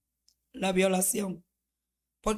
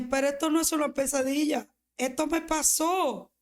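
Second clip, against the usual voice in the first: retold shock of realization; 4 semitones higher than usual. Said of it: "Yo dije".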